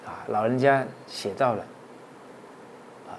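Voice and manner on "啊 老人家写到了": ordinary delivery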